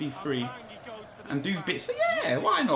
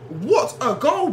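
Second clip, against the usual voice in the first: slow, higher, stretched-out admiration; awed praise; 7 semitones higher, 4 dB louder, much slower than usual. Real, not acted. Gamer marvelling at his own replay, slow and awed. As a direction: savour every word of it.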